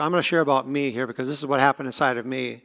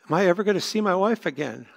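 retold crying; 4 semitones higher than usual. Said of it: "I started to cry".

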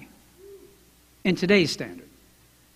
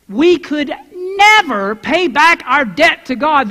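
slow, higher, near tears; voice breaking; 6 semitones higher, 6 dB louder, slower than usual. Real, not acted. Preacher to congregation, voice breaking with emotion. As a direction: let the voice crack with emotion.

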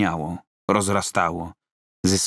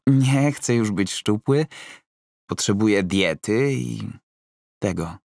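hinting at steroids without saying it; Roman, insistent; 3 semitones higher than usual. Acted. Narrator voices Roman.

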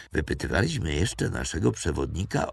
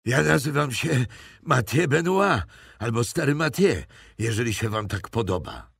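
put-on high, louder old peasant voice; frightened old poacher naming himself to captors; old poacher Mathieu; 8 semitones higher, 5 dB louder than usual. A narrator's reading. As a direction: play a wary old woodsman.

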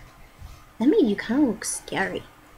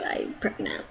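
silly voice; 12 dB quieter than usual. Pretend. Joke in a silly put-on voice.

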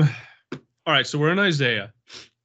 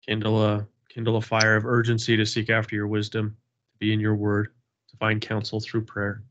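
steady, earnest prayer voice; humble group prayer, even and sincere; opening prayer. Acted. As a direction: lead the group in prayer, unhurried. Opening prayer at Bible study.

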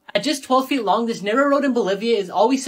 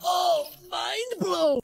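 mock amazement; 8 semitones higher, 5 dB quieter, much slower than usual. Real, not acted.

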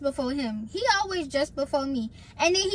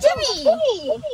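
loud high call across the room; 10 semitones higher, 4 dB louder than usual. Real, not acted. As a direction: shout a name to get attention. Calling out loudly.

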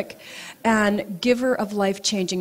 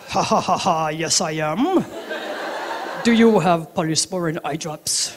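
laughing monk; 2 semitones lower than usual. Retold or imitated. Monk laughing as he answers her question. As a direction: laugh warmly while saying yes. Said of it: "And he says".

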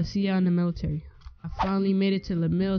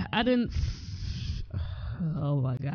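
laughing too hard to talk; 3 semitones lower, 5 dB quieter, much slower than usual. Real, not acted. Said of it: "I can't even talk right now".

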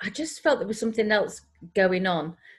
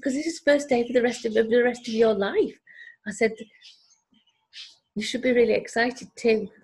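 excited; 5 semitones higher than usual. Retold or imitated. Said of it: "I was dead excited for her".

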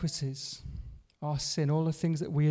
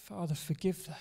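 much softer, hushed plea; Jesus praying softly; 7 dB quieter than usual. Retold or imitated. Jesus struggling for breath, praying for them, very soft. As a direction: breathe it out, barely there. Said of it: "Jesus said".

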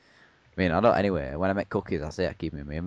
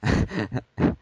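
hammed-up high zombie moan; mock undead groan; 6 semitones higher, 7 dB louder than usual. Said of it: "what is my zombie impression?".

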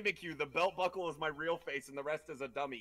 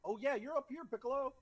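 1 (playful sing-song); 10 semitones higher, 5 dB louder, faster than usual. Acted. Playful high voice toward character.

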